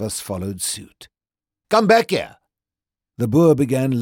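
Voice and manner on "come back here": high, loud furious yell; angry shout. A narrator's reading. Boer shouting after the runaways, high and loud. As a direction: bellow at them to come back. Boer chasing the fleeing group.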